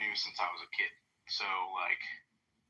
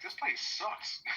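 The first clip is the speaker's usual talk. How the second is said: mock disgust; 13 semitones higher, much slower than usual. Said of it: "she was also like".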